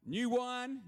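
high, loud NEW; punched title. Acted. Pastor repeats the title, stress on new. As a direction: hit new hard and high. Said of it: "repeats the title".

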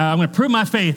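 put-on light country accent for a believer. Preacher voicing a snake handler's vow, mild country accent. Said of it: "I'm using a country accent".

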